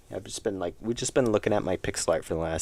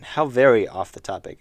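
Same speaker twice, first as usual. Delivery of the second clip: dramatic lament; 4 semitones higher, 10 dB louder than usual. Real, not acted. Mock-dramatic lament, louder.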